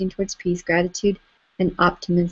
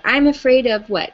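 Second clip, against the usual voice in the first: blurted out; 2 semitones higher than usual. Shown as a demonstration. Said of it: "Blurt it out".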